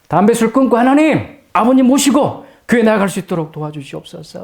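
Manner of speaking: a fervent prayer lifted high. Retold or imitated. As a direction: cry out to God with fervor. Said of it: "엄청나게 기도했어요".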